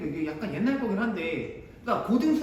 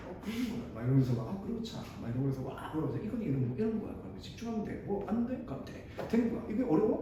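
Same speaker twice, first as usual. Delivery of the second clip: imitating calm star lecturer; 6 dB quieter, faster than usual. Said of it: "톤도 이렇게 안 높아".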